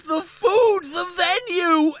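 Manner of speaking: the food, the venue yelled in anger; shouted list. Acted. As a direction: bark out each lost item.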